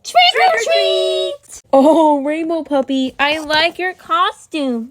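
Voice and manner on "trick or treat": excited call. Pretend. Knocking for candy at Halloween.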